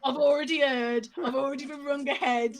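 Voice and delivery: imitating a babysitter laughing as she talks. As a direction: retell her line while cracking up. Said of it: "babysitter underneath is crying with laughter".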